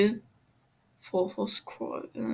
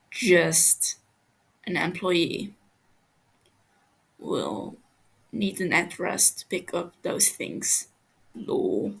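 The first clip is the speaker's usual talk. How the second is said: lower, flat cool threat; a touch of low icy menace; cold menacing captor; 3 semitones lower, slower than usual. Acted. Techno speaks coldly.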